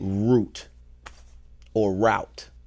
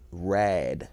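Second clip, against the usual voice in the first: ordinary talk, nothing marked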